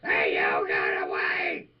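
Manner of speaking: deep, slow shouted voice; low shout. Acted. Voicing Buster the frog.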